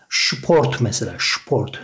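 "sport" said SHPORT. Shown as a demonstration. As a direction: model German "sport" with opening sh. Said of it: "S harfini biz Ş şeklinde".

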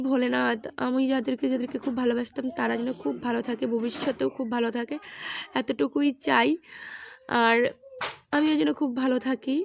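softly praying for everyone's wellbeing; quiet prayer. Real, not acted. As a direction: murmur a heartfelt prayer to Shiva. Prayer to Bholenath repeated.

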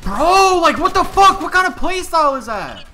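hyped gamer bro. Real, not acted. Outraged at enemy playstyle.

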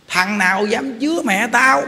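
imitated angry challenge, drawn out slowly; mock a slow, menacing demand; retold cursing threat. Woman's child confronting the temple, retold slow threatening challenge. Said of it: "nó chửi kinh khủng".

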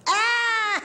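put-on high drunken exclamation, easing down; sudden tipsy realisation; delighted drunk. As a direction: play a drunk happily giving the go-ahead. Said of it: "Y el borracho dice".

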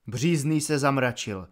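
ordinary delivery

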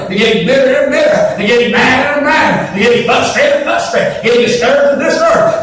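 rising, pressing preaching; preacher building to a peak; building sermon. Acted. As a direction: drive the point harder each line.

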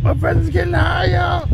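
very high, panicked shout; raging gamer. Real, not acted. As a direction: shriek it in a panic. Panicking while mashing space bar.

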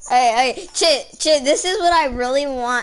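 voice changer. Acted. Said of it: "there's my real voice".

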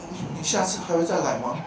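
soft, timid plea, mock bashful; shy. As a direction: ask like a bashful lover, hushed. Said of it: "然后害羞的说". (害羞地小声问)

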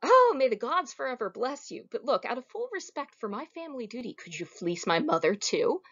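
a cheeky son, gushing then rushing on; mock pious. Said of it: "He says".

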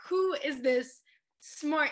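drawn-out, slow "Who is this smart?" in mock awe; slow, amazed retelling; slow awed quote. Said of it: "I was like".

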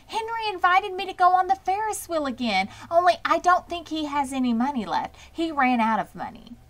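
put-on girl pleading her case to mother; eager girl. A narrator's reading. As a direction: explain eagerly. Fern explaining.

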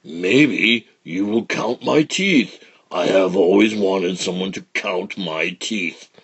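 slow sly big alligator; lightly voiced sly crocodile.

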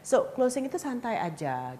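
easy, casual reassurance; relaxed intonation. Shown as a demonstration. Coach showing how closing should sound, relaxed. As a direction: say it as no big deal. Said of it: "gitu, ada intonasinya".

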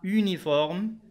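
يونيفورم with a French u at the start, rounded lips; French pronunciation. Shown as a demonstration. Teacher giving class the French u of uniforme. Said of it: "مثل كلمة".

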